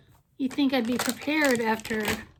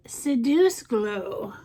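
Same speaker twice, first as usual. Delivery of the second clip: slow, lightly sultry mock seduction; much slower than usual. Vlogger teasing viewers with a sexy shade name, sultry.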